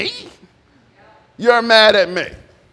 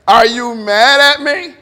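louder and slowed, each word weighed; God's stern question; 5 dB louder, slower than usual. Retold or imitated. God confronting a sulking believer, slow loud reproach. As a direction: press the question home, slow and firm. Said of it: "Me and God had that conversation before".

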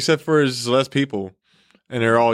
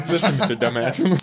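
mock cop.

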